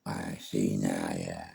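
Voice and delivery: very low, slow, held-in fury; mock cold threat; low quiet menace. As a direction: say it low and slow to unsettle him. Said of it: "I'm like".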